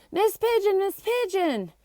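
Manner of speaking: high, excited calling out; eager calling. Acted. Barry calling eagerly to Miss Pigeon, excited. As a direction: bounce out of your seat calling her.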